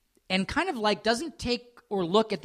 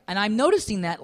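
ordinary talk

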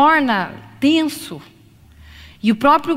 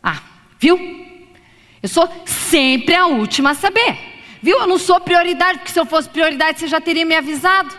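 wounded, accusing and a bit higher; wife reproaching her husband for the late notice; hurt criticism; 5 semitones higher than usual. Shown as a demonstration. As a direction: sulk that you are never his priority. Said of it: "E uma crítica?".

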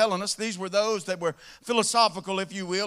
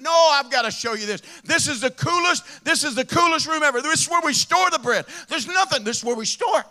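excited show-off; 3 semitones higher, 4 dB louder than usual. Acted. Guy shows off storage room.

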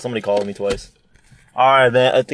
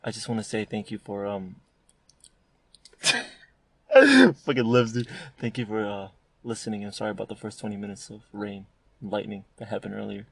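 ASMR whisper. Pretend. Host mocking ASMR to thank listeners, whispered. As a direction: breathe it close to the mic. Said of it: "talking like A S M R".

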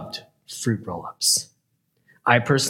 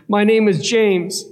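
put-on higher, louder child's answer; little boy; 7 semitones higher, 4 dB louder than usual. Boy giving his name to the store worker, earnest.

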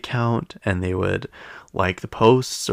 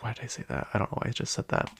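muttering to herself; 9 dB quieter, faster than usual. Retold or imitated. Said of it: "you're like".

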